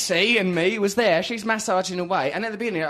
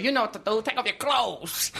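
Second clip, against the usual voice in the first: put-on American Thai accent; 5 dB quieter than usual. Retelling the masseuse's words in American Thai accent. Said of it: "That is an American Thai accent".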